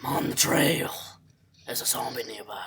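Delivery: hushed stealthy whisper. Acted. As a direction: whisper like sneaking past zombies. Whispering while sneaking in game.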